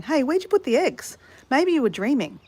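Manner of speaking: imitated calling out. Diego calling out about missing eggs, mild mock yell. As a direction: mildly imitate someone hollering a question. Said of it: "Diego's yelling out to me going".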